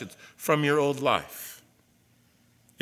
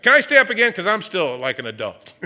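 put-on kid asking again; 5 semitones higher, 11 dB louder than usual.

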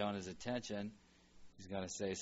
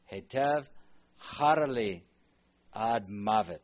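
loud emphatic reading; 8 dB louder than usual. Shown as a demonstration. Teacher reading Jonah's answer to God: loud, raised. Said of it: "repeats Jonah's angry words".

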